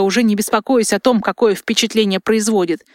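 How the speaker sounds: usual speaking voice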